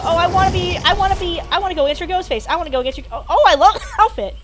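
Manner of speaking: high, eager mock of a friend's gushing; mild mock gush. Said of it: "She made this big deal about".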